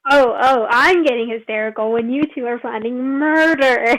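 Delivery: worked-up, indignant protest; mock hysterical. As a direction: throw the accusation back, a touch hysterical. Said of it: "It sounds like you're about to hyperventilate".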